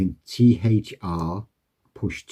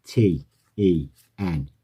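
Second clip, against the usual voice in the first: spelled out; 3 semitones lower, slower than usual. Shown as a demonstration. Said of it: "you're spelling it out".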